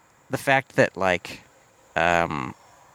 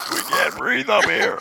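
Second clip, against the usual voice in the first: put-on high, strained child voice; high kid voice; 8 semitones higher than usual. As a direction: gasp it like a kid in space. Voicing a kid in space.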